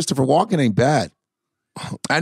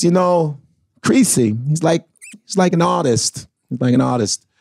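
lightly voiced Walken. Shown as a demonstration. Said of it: "He goes".

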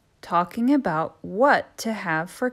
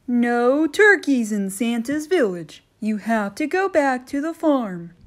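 louder, higher stern elf; christmas elf; 4 semitones higher, 7 dB louder than usual. Acted. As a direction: send the turkey packing. Elf voiced.

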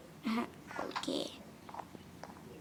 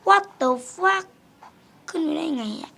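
higher, loud shocked outburst; stunned disbelief; 7 semitones higher, 6 dB louder, slower than usual. Real, not acted. Gamer shocked an enemy climbed up, disbelieving shout. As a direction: blurt it out in disbelief.

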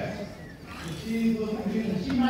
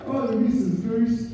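sweetly. Acted. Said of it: "said Big Bad Wolf sweetly".

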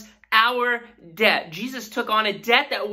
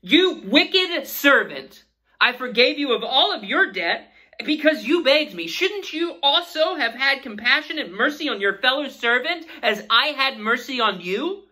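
angry king; 6 semitones higher than usual. Retold or imitated. King rebuking the unforgiving servant, stern higher voice. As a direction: scold him as the betrayed master. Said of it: "and said to him".

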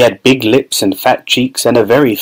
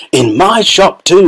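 high, drawn-out delighted yell; excited yell; 7 semitones higher, slower than usual. A narrator's reading. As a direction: crow it with pride. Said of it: "he yelled".

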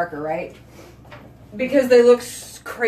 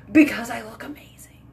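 whispered aside. Real, not acted. Whispered aside about her age.

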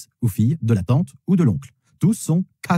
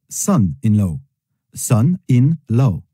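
slow model word; much slower than usual. Shown as a demonstration. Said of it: "signifie beau-fils".

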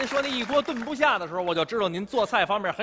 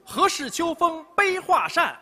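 high, slow recital voice; poem recitation; 9 semitones higher, slower than usual. Acted. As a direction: recite it with lofty flourish.

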